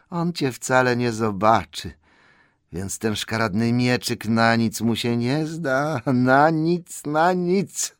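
lightly voiced creature gloating to itself; scheming Gollum. Gollum dismisses the nasty little sword, rising gloat. Gollum talking to his treasure.

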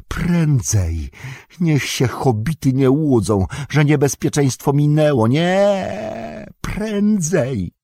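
high, hissing creature urging haste. A narrator's reading. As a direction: hiss at them to hurry. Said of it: "syczał".

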